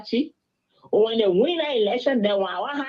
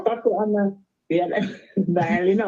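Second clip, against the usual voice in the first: phone in mouth. Real, not acted. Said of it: "I can't put my phone in my mouth".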